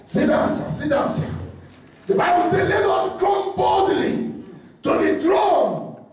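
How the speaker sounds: shouted preaching over music; fiery preacher sermon. Acted. Preaching at full force.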